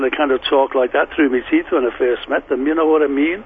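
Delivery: light Scouse, talked through the teeth; Liverpool accent. Shown as a demonstration. Guest recalling his youth in a Liverpool accent. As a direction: put on a Liverpool lilt, lightly. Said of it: "still had the Liverpool accent".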